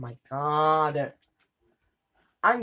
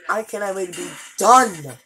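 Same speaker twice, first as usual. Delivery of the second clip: louder emphatic repeat; 6 dB louder than usual. Real, not acted.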